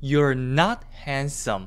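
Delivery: heavy, strong stress landing on not. English pronunciation lesson on negation, with strong stress on not. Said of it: "강세를 강하게 주면서 ... 낮 부분에 강세를 주는 거를".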